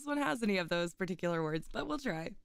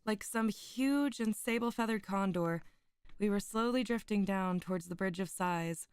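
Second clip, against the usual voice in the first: put-on measured, solemn reading of an old tale; story narration. Streamer reading Poe's tale to her chat, in a solemn narrating voice. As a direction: read it like a gothic storyteller. Reads Poe aloud to stream.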